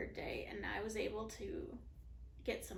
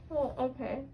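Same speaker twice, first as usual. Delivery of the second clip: groggy; 3 semitones higher, 4 dB louder than usual. Real, not acted. Woozy patient.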